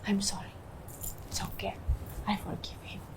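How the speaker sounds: barely voiced, very soft; hushed, near-whispered exchange; retold tearless reconciliation. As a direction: replay an intimate apology and pardon. Retells apology and forgiveness.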